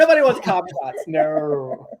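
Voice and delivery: talking while crunching ice; words round a mouthful of ice; chewing ice. Real, not acted. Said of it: "I'm chewing on ice".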